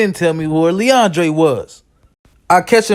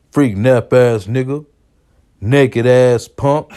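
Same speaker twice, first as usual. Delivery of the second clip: scornful insult; 4 semitones lower, slower than usual. Retold or imitated. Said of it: "smack his lips and say".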